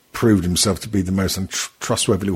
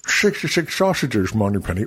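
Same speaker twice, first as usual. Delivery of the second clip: a hammed-up Connery Scottish accent; lightly done bad Sean Connery accent. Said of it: "trying to do a Sean Connery accent".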